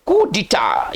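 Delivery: कूडिटा in distinct syllables, falling at the end; pronunciation demo. Shown as a demonstration. Teacher introducing the next word, कूडिटा pronounced distinctly. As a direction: sound out कूडिटा clearly. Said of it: "इसको पढ़ेंगे कूडिटा".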